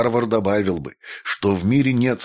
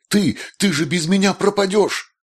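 much higher desperate shriek; screaming back; 11 semitones higher than usual. A narrator's reading. Jessica shrieking at the maestro, much higher desperate cry.

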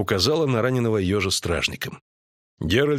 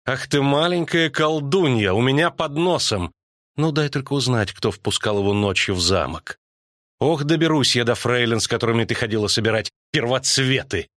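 mother's mild scolding, pitched up at first; scolding queen; 3 semitones higher than usual. Acted. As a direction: scold the daughter as an angry queen. (королева отчитывает дочь)

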